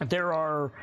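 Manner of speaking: hiccuping mid-sentence; interrupted by a hiccup. Real, not acted. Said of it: "I have the hiccups".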